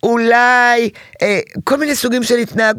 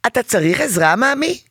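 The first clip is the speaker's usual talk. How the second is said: sweet offer of help; 4 semitones higher than usual. Retold or imitated. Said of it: "את באה ואת אומרת לו".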